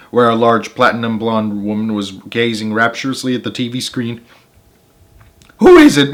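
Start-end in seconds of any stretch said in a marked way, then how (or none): 5.6-6.1 high, loud call over the TV; shrill wife call. Acted. Wife calling over the TV, high and loud. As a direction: call out without looking away. Mrs Wormwood calling, not looking.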